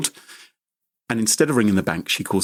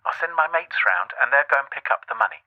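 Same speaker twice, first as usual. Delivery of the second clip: higher, hurried fake grandson; head granny off fast; playing Steve in a panic; 5 semitones higher than usual. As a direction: scammer stopping granny coming over, higher. Plays Steve refusing granny's visit.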